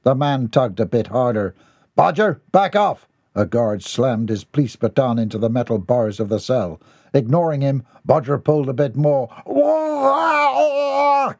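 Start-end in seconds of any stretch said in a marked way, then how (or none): 2.0-3.1 loud, high command; guard's shout. Acted. Guard orders Bodger off Mortimer, loud command. 9.4-11.3 very high panicked cry. Acted. Mortimer cries out as his tongue is yanked, very high. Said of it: "cried Mortimer".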